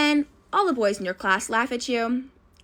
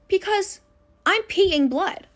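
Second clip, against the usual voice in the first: put-on panicked kid; 7 semitones higher than usual. Panicked girl calling mom.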